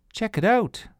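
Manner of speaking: high eager check it out; a girl proudly showing her flower; excited child. Acted. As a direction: show off a treasure with delight. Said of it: "Sophie said".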